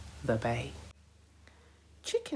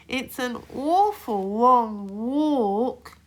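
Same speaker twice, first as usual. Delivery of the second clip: slow high whiny complaint; moaning; 10 semitones higher, 6 dB louder, slower than usual. A narrator's reading. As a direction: drag out the moan. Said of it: "he moaned".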